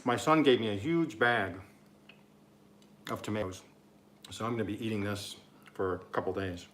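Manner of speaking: talking through a mouthful of bread; words muffled by chewing; mouth full. Real, not acted. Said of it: "talking with my mouth full".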